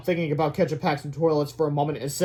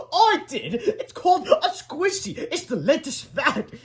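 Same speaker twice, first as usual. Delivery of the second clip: laughing; 12 semitones higher, slower than usual. Acted. Teacher laughing, continues.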